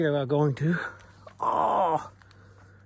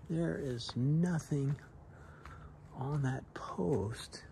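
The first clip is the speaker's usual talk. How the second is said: whispering; 7 dB quieter, much slower than usual. Real, not acted. Quiet trail narration.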